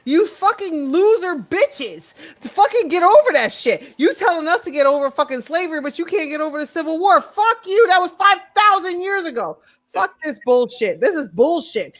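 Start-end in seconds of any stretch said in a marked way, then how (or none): 0.0-10.4 heated, rising into a higher, furious yell; angry rant. Real, not acted. Ranting at Confederate flag wavers, furious. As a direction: rant at them with real anger.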